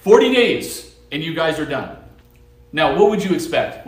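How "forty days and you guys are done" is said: a loud, high burst on forty; preacher mimicking Jonah's blunt warning; mock proclamation. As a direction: announce the doom like a prophet. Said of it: "it's a one-point sermon".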